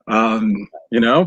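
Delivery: ordinary delivery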